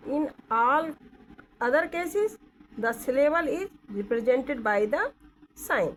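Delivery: reads the rule slowly, word by word; slow careful textbook reading; slow reading aloud. Shown as a demonstration. Teacher slowly reads the textbook rule aloud. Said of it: "और cases में".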